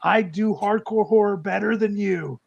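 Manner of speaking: high-pitched, needling brag; mock boasting. Author bragging to the rival who cancelled him, mock boasting.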